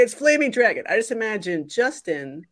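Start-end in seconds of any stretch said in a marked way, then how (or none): 0.0-0.8 high-pitched mock movie yell; imitated yell. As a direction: quote an accented shout, only lightly raised. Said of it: "Tom Cruise is yelling at him".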